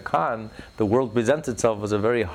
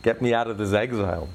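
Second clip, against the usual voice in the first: groaning plea; 3 semitones higher than usual. Retold or imitated. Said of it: "when a Jew starts groaning".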